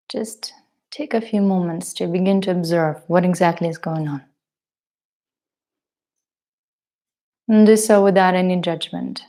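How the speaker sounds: measured meditation guidance with long pauses; guided meditation. Acted. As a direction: guide them gently into the breath, leaving space between phrases.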